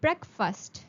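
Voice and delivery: breakfast with a short, quick u in the second syllable; teacher models the correct breakfast; breakfast, BREK-fust. Shown as a demonstration. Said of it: "The correct pronunciation of this word is".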